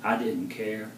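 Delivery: measured poetry reading, pausing between phrases; poem recital. Acted. Poet reads poem a woman inspired, measured recital. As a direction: recite it in spaced lines, endings dropping away.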